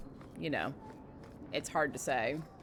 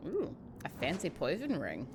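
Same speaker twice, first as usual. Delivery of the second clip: soft talk with a mouthful of candy; mouth full; 7 dB quieter than usual. Real, not acted. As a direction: speak around candy in the mouth. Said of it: "too much candy in my mouth".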